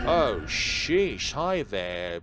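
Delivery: sudden loud gasp of surprise; startled. Acted. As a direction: jump out of your skin. Startled by hooded entity.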